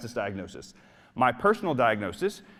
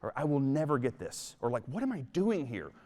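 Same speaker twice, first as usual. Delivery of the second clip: negative self-talk; 3 dB quieter than usual. Retold or imitated. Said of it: "you say things like".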